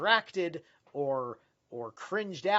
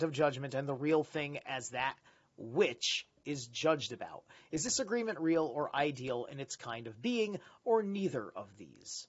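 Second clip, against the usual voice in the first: measured reading of a dense text; reading aloud. Acted. Streamer reading a philosophy book to viewers, measured reading voice. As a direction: read it out like a study passage.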